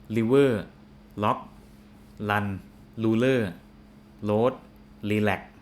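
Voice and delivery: imitating learners who replace R with L; Thai learner's L for R. Teacher imitates Thai learners misreading the R words. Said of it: "they might say".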